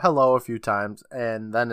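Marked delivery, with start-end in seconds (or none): 0.0-0.3 louder retold call into a building; lightly acted call to see who's there. Jessie calls into the building, calling out. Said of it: "Jessie calls out".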